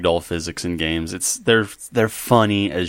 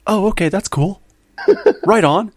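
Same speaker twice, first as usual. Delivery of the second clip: a laid-back California surfer dude shrugging it off; Californian surfer accent; 10 semitones higher than usual. Pretend. Australians answer the fake Prime Minister in a Californian surfer accent. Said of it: "talk with the Californian surfer dude accent".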